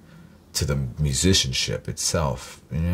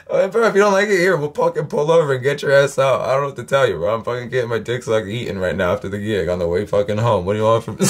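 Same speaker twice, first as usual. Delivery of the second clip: Bird's brash comeback; 6 semitones higher, faster than usual. Retold or imitated. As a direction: shoot it back high and brash like you don't care. Bird answers Miles in cab.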